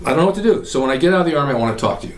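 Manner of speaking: ordinary talk, nothing marked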